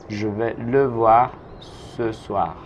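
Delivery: slow, clear full sentence; slow model sentence. Shown as a demonstration. Teacher modelling the whole sentence slowly for the class. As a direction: say it whole and slowly for learners to copy. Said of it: "teacher repeats whole sentence".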